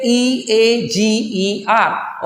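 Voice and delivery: slow letter-by-letter spelling; slow spelling of eager; spelled out. Shown as a demonstration. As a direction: spell ई ए जी ई आर slowly, each letter apart. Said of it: "इसे आप एगर भी बोल सकते हैं".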